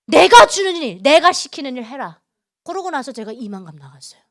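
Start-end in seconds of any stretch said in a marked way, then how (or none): 0.1-2.2 loud, emphatic order in God's voice; commanding. Retold or imitated. God telling Yuna what her work is, firm loud command. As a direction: punch each half of the command.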